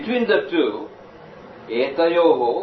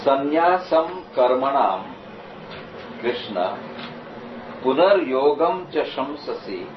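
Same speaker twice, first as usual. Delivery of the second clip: Sanskrit recitation. Shown as a demonstration. Reciting Sanskrit verse, slow.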